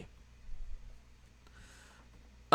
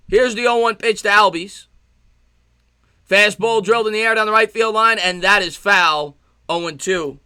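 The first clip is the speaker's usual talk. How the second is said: loud, raised sportscaster call; live play-by-play; 3 semitones higher, 5 dB louder than usual. Real, not acted. Streamer calls the pitch to Albies, live play-by-play.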